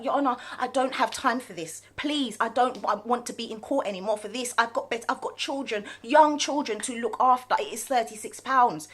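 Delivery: very polite. Retold or imitated. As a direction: ask the judge nicely, careful and respectful. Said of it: "I was very polite".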